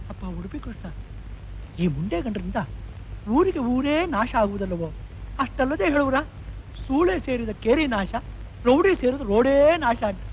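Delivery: grumbling softly under his breath; muttering. Acted. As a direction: shopkeeper grumbling aside about rowdy customers, mutter. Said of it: "ಗೊಣಗ್ತಿದ್ದೀರಾ?".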